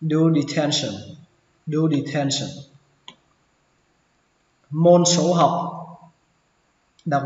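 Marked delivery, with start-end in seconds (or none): 0.0-2.5 "detention" ending like Vietnamese "sần"; "do detention" with "sion" as "sần"; third pronunciation. Shown as a demonstration. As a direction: say the last syllable of "detention" as "shun" with a short vowel. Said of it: "có thể đọc thành chữ sần".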